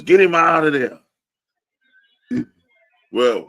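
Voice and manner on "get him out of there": loud, high jeering yell; mock fan yell. Fan yelling at the team to bench the quarterback, loud jeer. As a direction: yell it like a fed-up fan in the stands.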